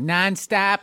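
slow, flat Midwest nonstop with a clear o; slow flat Midwestern nonstop; Midwest accent. Shown as a demonstration. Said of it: "that's Midwest".

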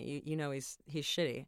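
quiet, knowing dig at the guy; dropped confiding aside. Retold or imitated. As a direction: soften right down, letting her in on it. Telling friend he's bad.

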